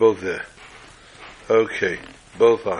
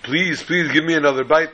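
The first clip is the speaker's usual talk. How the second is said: mild imitated pleading, pitched higher; retold begging, raised pitch; 5 semitones higher than usual. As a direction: act out an eager plea lightly. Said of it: "they begged and pleaded".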